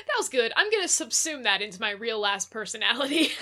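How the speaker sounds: giggling through the line; laughing. Real, not acted. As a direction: barely hold the laugh in. Riffing on the same joke.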